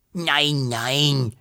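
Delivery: soothing dragon reassurance; gently drawn-out comfort; consoling hiss. A narrator's reading. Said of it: "wollte der Drache tröstend fauchen".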